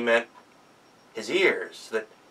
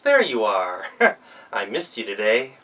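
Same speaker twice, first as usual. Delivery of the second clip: Gretel admires herself, cooing to her reflection; 2 semitones lower, 4 dB louder than usual. Acted.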